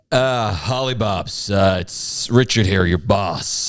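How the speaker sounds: slow, tentative American boss; hesitant attempt at American; generic American accent. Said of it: "Just do generic American".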